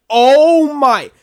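high, loud scandalized "Oh my"; a kid catching something racy; shocked gasp. Retold or imitated. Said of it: "and I was like".

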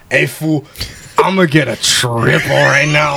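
slow, drawn-out caricature of a buddy; exaggerated impression of friend. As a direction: stretch it out like a mocking impression. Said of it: "I do the most exaggerated impressions".

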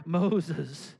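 firmer, drawn-out call of the name; insistent calling. Acted. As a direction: call the name out longer to someone not hearing. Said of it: "I don't hear the Lord".

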